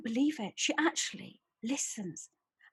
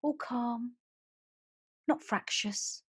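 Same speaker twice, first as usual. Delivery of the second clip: calm soft voice; 3 dB quieter, slower than usual. Shown as a demonstration. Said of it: "voices like this".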